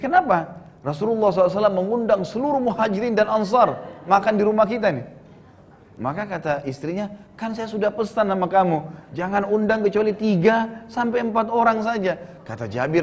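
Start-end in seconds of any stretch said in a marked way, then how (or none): 0.0-5.1 high, rushed, agitated retelling; acted dismay. Jabir and wife over guests invited home, acted dismay. 7.3-12.1 high-pitched wifely reproach, acted; mock scolding. Wife reminds Jabir of her instructions, mock scolding.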